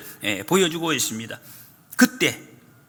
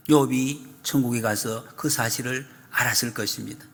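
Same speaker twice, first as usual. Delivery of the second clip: ordinary talk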